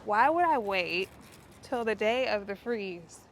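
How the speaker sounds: loud self-reproaching wail, starting high; exasperated lament. Real, not acted. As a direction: moan loudly at your own folly. Lamenting her own late harvest.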